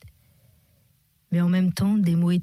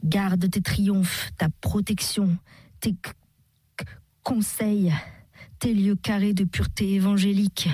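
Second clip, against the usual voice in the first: trembling stammered invective. Acted. Drunk man stammers insults at his rival, trembling. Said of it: "bégayait de tremblantes, mais fort précises invectives".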